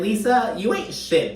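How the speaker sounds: high, sassy put-down of Lisa; sassy jab. Real, not acted. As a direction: tell Lisa off with attitude.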